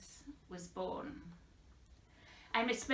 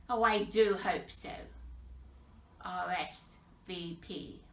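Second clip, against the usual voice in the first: measured poem recital with long pauses; poetry reading. Acted. Poet reading of calls to the dead, measured recital. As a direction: let pitch rise and fall with each phrase. Reads own poem aloud.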